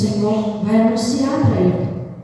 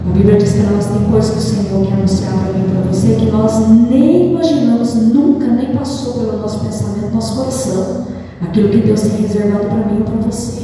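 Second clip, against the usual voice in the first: rising sermon; 4 dB louder than usual. Acted. Preaching builds to full force.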